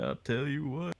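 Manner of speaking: Southern drawl. Shown as a demonstration. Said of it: "I thought you sounded like Elvis".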